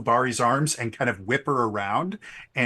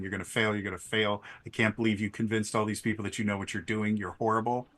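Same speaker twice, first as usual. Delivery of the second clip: hushed, nagging inner voice, softer; a quiet doubting murmur in your head; imposter syndrome voice; 3 semitones lower, 6 dB quieter, faster than usual. Acted. Inner doubt whispering to the rider, softer nagging voice. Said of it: "that imposter syndrome voice in the back of your head".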